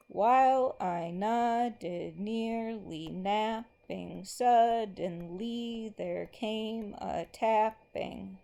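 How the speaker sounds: slow, rhythmic recitation marking every beat; slow poem reading. Acted. Teacher reads a poem line to the class, slow and rhythmic. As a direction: read it out as if tapping the meter.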